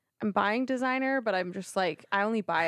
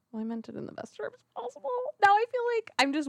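laughing; 13 semitones higher, much faster than usual. Real, not acted. Flustered self-defence, laugh heard.

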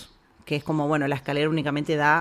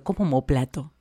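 amused disbelief; 2 semitones lower than usual. Retold or imitated. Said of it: "yo estaba tentada".

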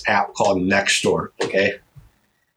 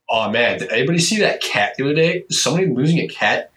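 lightly voiced old-timer, higher and quicker; mock fretful neighbor; 4 semitones higher than usual. Comic mimicking worried app posters, mock fretful. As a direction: imitate an anxious neighborhood post, pitched up.

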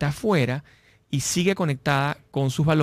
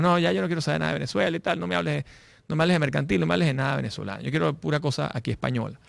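higher, quick mock rejection; imitating a dismissive Venezuelan; 4 semitones higher, faster than usual. Emigrant in Madrid telling the host, higher and hurried. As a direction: rattle it off like someone fed up with home. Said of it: "te dicen en venezolano".

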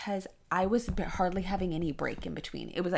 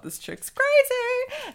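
much higher, slow, exaggerated mock voice; hammed-up mockery; doctor's imagined aside, mocked; 7 dB louder, much slower than usual. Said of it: "And he's like".

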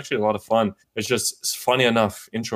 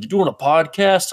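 neighbor voice; 7 semitones higher, 4 dB louder than usual. Retold or imitated. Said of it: "He's like".

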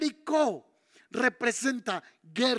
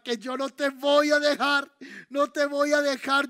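higher-pitched, emphatic vow of loyalty; insistent refusal; 3 semitones higher, 4 dB louder than usual. Acted. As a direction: dig in and insist, voice lifted. Eliseo, acted, refuses to leave Elías. (negativa insistente, con voz más alta y enfática)

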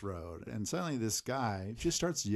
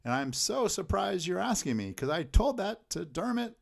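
chatty local; 6 semitones higher, 4 dB louder than usual. Retold or imitated. Acts out chatty local's breezy answer.

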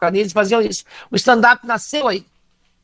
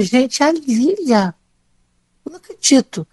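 starstruck; 4 semitones higher than usual. Retold or imitated. Starstruck on seeing her idol.

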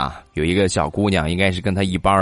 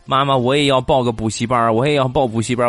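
put-on higher, pleading little girl voice; whiny little girl; 5 semitones higher than usual. Little daughter begging mom for a toy, higher and pleading. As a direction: beg like an envious kid.

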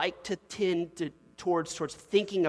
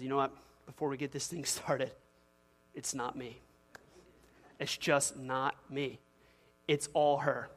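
lower, understated husband in counseling; lightly voiced husband; 3 semitones lower, 5 dB quieter than usual. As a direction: play a husband calmly disowning blame. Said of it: "the husband looks at me and says".

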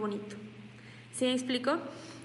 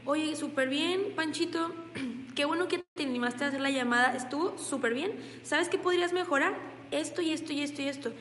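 encouraging praise; 3 semitones higher than usual. Shown as a demonstration. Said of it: "Qué es lo que yo le diría".

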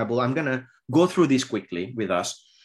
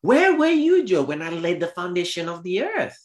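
God's challenge; 6 semitones higher than usual. Acted. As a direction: thunder the first words like God. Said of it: "verse four".

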